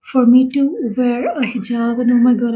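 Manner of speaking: fighting back real tears; on the verge of tears. Real, not acted. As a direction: voice catching, about to cry. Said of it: "I'm going to cry".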